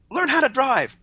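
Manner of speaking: mock yell pitched high; first-level driver's yell, high but not full volume; imitated yell. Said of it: "the first thing she yelled was".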